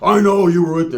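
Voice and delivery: mock accusation. Biker confronting the screaming chick, mock accusing. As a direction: accuse her like a jealous biker.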